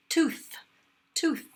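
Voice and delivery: "tooth" high with an airy unvoiced th at the end; bright teacher demo of the breathy th in "tooth". Shown as a demonstration. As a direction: end "tooth" on pure air. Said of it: "I think that's pretty breathy".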